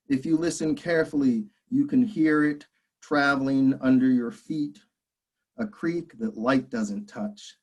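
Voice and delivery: measured poem recital with pauses between lines; deliberate phrasing, each line set apart; poetry reading. Acted. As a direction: read your poem to an audience, line by line. Reads own poem aloud.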